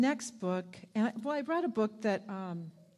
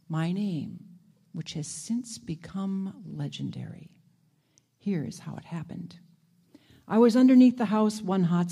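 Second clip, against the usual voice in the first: story narration. A narrator's reading. Reading story aloud.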